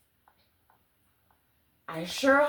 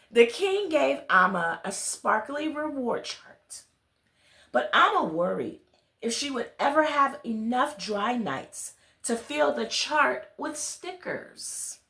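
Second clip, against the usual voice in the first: put-on gentle storybook reading to children; story narration; 2 semitones higher than usual. A narrator's reading. Reader telling children a bedtime story, gentle storybook narration. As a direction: read it like a bedtime tale to little listeners. Reads picture book aloud.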